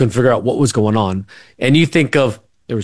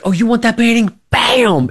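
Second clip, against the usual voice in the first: mom's mock taunt; 13 semitones higher than usual. Mom smashing a painting over dad's head, high mock taunt. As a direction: taunt him while swinging the painting. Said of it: "And he's like".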